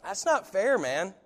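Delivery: rising protest, pitch climbing; an aggrieved churchgoer pleading with Jesus; complaining to Jesus. Retold or imitated. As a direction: whine that it's not fair. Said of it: "so bold as to say".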